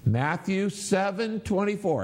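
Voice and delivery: group recitation aloud. Shown as a demonstration. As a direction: call it out slowly for all to repeat. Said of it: "let's do it again".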